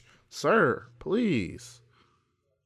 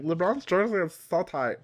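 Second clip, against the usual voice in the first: raised, slightly mocking put-on voice; odd put-on voice; 7 semitones higher, 4 dB louder than usual. Host jokes about the player's tight jersey, odd voice. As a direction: pitch it up, playfully off from usual. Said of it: "why are you talking like that".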